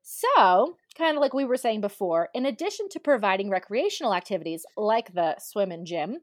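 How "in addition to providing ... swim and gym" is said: talking between sips; words around a sip of drink; while sipping a drink. Real, not acted. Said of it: "sorry, I'm drinking too at the same time".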